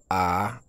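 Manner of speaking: long, level A in Chinese first tone. Shown as a demonstration. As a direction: say A straight, on one steady pitch. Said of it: "On a le premier ton".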